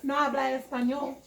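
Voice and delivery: light put-on Spanish accent, lifting at the end; fake Spanish accent. Shown as a demonstration. Showing how she could have refused the man, fake Spanish accent. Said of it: "my little fake Spanish accent".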